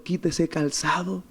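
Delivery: soft, slow divine instruction; gentle solemn command. Retold or imitated. God tells someone to remove the shoe, gentle solemn command.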